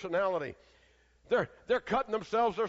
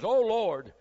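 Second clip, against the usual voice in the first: louder call to the Lord; prophet's cry; 5 dB louder than usual. Retold or imitated. Elijah calling out to God at the altar. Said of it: "And he says".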